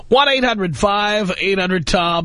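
slow, drawn-out number plug; radio announcer. Acted. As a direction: announce the phone number slowly. Radio host phone number read.

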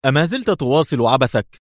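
mocking jab with an edge of anger; sneering irritated question; irritated sarcasm. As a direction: needle him, annoyed and scornful. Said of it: "في مزيج من الحنق والسخرية".

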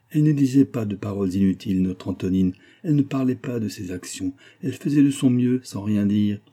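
nanny's firm, insistent reproach; stern old nanny. Acted. Old servant blaming her mistress for Antonine's death, stern. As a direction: press the accusation home.

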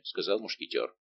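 usual speaking voice

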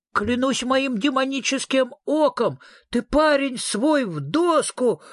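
high, excited eerie ghost voice, slow at the end; a delighted spook swearing by its demon eye; ghost's exclamation. Acted. Ghost thrills at Fredrikson's scaring tricks, high delighted exclamation. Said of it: "воскликнуло привидение".

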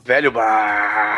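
low, drawn-out machine rumble; droning mock engine noise; imitated air-conditioner noise. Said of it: "aquele barulho lindo, né, de ar-condicionado".

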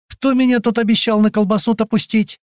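high, mocking challenge; cheeky taunt. A narrator's reading. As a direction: needle the short guy.

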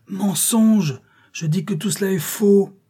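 high, forceful cry of denial; indignant outcry. Acted. Accused woman rejects charge against her children, indignant outcry. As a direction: fling back the accusation, pitched high.

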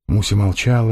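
ordinary delivery, nothing marked

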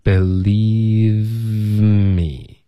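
"Believe me" drawn out, the v humming straight into m; unbroken airflow. Shown as a demonstration. Teacher showing that the airflow must not break, slow linking. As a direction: stretch "Believe me" slowly with no gap between words. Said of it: "中间的气流不能断".

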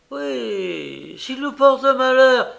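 a hammed-up frightened echo; anxious echo. A narrator's reading. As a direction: echo the fear, pushing it up. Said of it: "répéta Matisse".

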